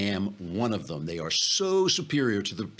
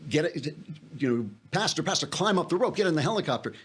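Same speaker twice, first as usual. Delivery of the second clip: mock shout from above; 6 semitones higher than usual. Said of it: "the guys shout from the helicopter".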